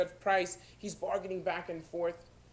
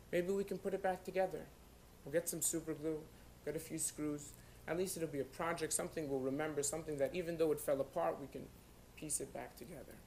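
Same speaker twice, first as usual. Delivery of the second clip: gentle reassurance; 2 semitones lower, 8 dB quieter than usual. Acted. Father consoling crying son in story.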